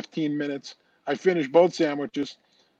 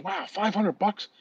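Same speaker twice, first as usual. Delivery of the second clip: slow, softer stunned question; mock surprise; 4 semitones higher, 5 dB quieter, slower than usual. Man repeating Mary Lou's price, slow mock shock. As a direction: let the price sink in slowly. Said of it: "He goes".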